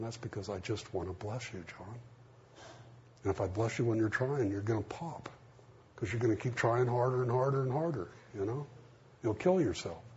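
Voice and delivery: a hint of a tender father soothing; gentle voice of God.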